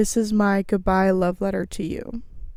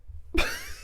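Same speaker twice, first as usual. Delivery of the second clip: big yawn; 12 dB quieter than usual. Real, not acted. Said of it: "I just yawned the biggest yawn".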